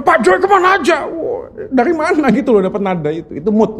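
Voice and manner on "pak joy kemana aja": "Pak Joy kemana aja?" high and yearning, kemana stretched with a fall; emotional reading. Retold or imitated. Husband imitating how his wife read the message, high and yearning. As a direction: mimic a wistful, longing question. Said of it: "Lu bacanya".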